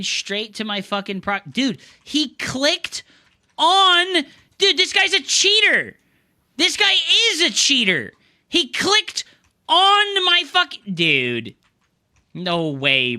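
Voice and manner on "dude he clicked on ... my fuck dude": high, loud disbelieving shout; real outrage at a cheater, high and loud; outraged yelling. Real, not acted. Catching cheater on replay.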